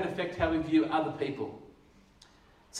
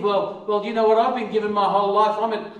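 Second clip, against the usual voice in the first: self-righteous boast; 6 dB louder than usual. Retold or imitated. Voiced self-righteous comparer.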